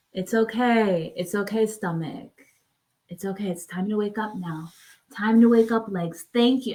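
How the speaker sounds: calm the anxious stomach gently; soothing self-talk. Shown as a demonstration. Soothing her own stomach awake.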